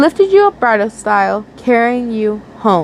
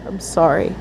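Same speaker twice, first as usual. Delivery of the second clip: soft, lower and tender; sympathetic apology; 5 semitones lower, 4 dB quieter than usual. A narrator's reading. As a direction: say it gently, full of sympathy. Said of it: "rolled off your tongue sympathetically".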